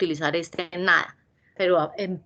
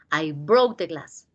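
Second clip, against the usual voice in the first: slow example sentence; 4 semitones lower, much slower than usual. Shown as a demonstration. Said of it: "En pasado".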